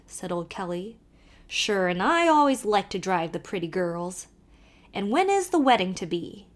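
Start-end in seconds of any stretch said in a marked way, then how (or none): 1.5-6.5 put-on lively Irish accent, calling to the horse; old Irish driver calling out; Irish carter. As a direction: urge the nag on in a brogue. Kelly teases Emily.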